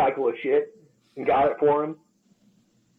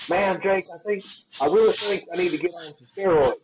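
lightly voiced young client, pitched higher; a hint of a pleading kid; whiny young guy; 5 semitones higher than usual. Young welder begging his trainer about steroids, lightly whiny. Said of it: "And he goes".

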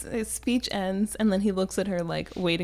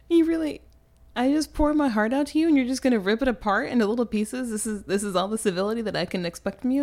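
higher-pitched wounded indignation; mock outrage; 3 semitones higher, faster than usual. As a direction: protest like a spurned suitor, hammed up. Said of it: "because he's so mad".

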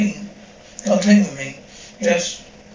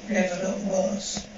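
softer and slower, trailing off; quiet slow echo; 5 dB quieter, slower than usual. Acted. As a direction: let the repeat sink, slowly and softly. Echoing his own grim remark.

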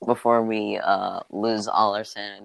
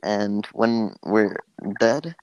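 hippie voice. Pretend. Podcaster conjuring up a silly theory, hippie voice. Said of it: "like, the most hippie thing".

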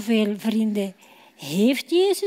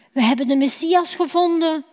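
quick, eager announcement; enthusiastic; 3 semitones higher, faster than usual. Acted. Filippus telling Nathanael they found the Messiah, enthusiastic. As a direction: tell it with a touch of glee. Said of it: "zegt Filippus enthousiast".

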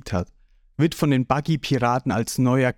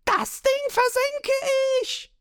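very high, strained scream; high, drawn-out war cry; battle yell. A narrator's reading. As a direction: scream it as you charge. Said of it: "schreit dabei".

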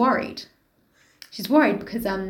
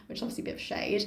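whispering; 3 semitones lower, 12 dB quieter, faster than usual. Real, not acted. Whispered aside.

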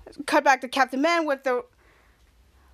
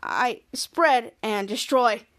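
low, slow robotic villain drone; slow low monotone computer virus; menacing virus voice; 4 semitones lower, much slower than usual. Acted. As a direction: drag each word out like a cold machine. Kid retells villain virus line.

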